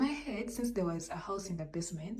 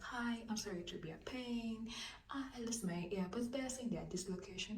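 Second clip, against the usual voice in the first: hushed, apologetic asking; polite soft request; 3 semitones higher, 7 dB quieter than usual. Retold or imitated. To the upstairs boy, a soft polite apology. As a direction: gently whisper a polite apology. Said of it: "you know me when I'm kind".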